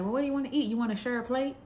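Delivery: a lightly voiced cheap date pitching his idea; imitating her date. Imitating the date asking if she'll share a plate, mock eager.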